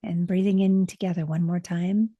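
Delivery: soothing meditation guide, long pauses; unhurried, settling voice with room to breathe; guided meditation. Acted.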